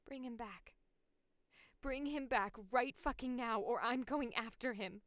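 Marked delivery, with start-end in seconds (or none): 1.8-5.0 firm demand. Acted. Acted demand, firmer.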